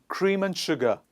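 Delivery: AND reduced to "un" between cream and sugar; repeat-after-me model. Shown as a demonstration. Teacher has class repeat after her, AND weakened to "un". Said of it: "Repeat after me".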